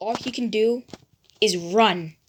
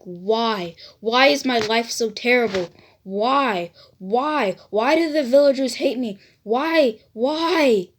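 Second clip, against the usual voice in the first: anguished lament; 3 dB louder than usual. Acted. Naruto cries out alone in his dungeon, anguished wail. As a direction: wail at the sky, each why more desperate.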